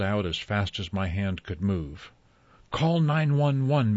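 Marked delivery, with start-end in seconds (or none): 2.7-3.9 high, loud, slow alarmed command; urgent cry. A narrator's reading. Mary urges the girls to phone for help, urgent cry. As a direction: make them move now. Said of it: "Mary cried suddenly".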